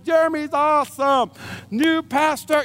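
a hint of a crowd chanting praise; lightly voiced adoring crowd; imagined cheering crowd. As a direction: cheer him on like fans. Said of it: "hoist me on their shoulders".

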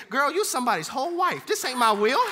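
Jesus talking straight. Acted. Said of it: "he would say".

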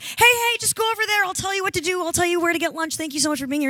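hurried brush-off. Retold or imitated. Brushing off the new PA mid-shoot.

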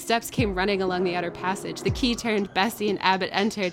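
measured, dramatic storybook reading; story narration. A narrator's reading. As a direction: read the gothic chapter aloud with suspense. Reads Jane Eyre aloud.

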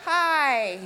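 embarrassed little hi then nervous laugh; awkward hi. Retold or imitated. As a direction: squeak out an awkward hello. Awkward greeting to Alex.

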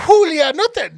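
grandma calling out to her daughter. Retold or imitated. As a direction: stop her with a sharp call. Grandma scolding Jules.

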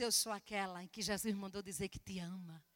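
soft, low, tender declaration; gentle answer. Retold or imitated. Missionary telling the owner Jesus loves her, gently.

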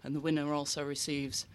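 gasping for air; breathless, still panting; out of breath. Real, not acted. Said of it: "Sorry, I'm well out of breath".

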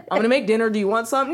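even, unbothered offer; calm. Retold or imitated. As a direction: imitate an unruffled boyfriend. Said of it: "this man will sit here all calm".

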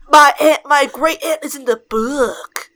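put-on hokey New England accent, loud first words; put-on New Hampshire accent with an odd "book"; imitated New Hampshire accent. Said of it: "that's how he said book".

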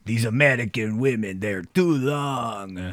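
mock Soviet agent accent; Russian accent. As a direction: drag out the complaint in a Russian accent. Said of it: "honestly pretty good accents".

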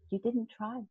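soft, quiet imitation of a serene coach; calm, angelic. Coach to trainee before walking away, calm and soft. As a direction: say it gently, very softly. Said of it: "looked at me really calmly".

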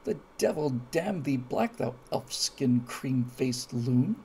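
put-on slow, savoring the old insult; mock Shakespearean curse. Shown as a demonstration. Telling the viewers how to swear, slow and savoring. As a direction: draw out each word with relish. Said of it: "You say".

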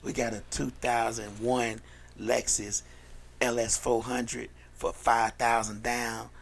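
slow, measured car-lot ad read; mock radio commercial. Host practicing a K Motors ad for paid spots, mock commercial read. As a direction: pitch the deal like a local radio spot. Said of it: "Trying to practice my commercial shits".

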